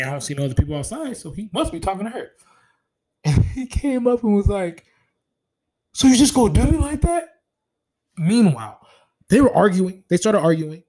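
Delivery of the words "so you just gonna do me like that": high, loud retold accusation; mock confrontation. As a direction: imitate an aggrieved husband calling her out. Confronting husband in retold quarrel.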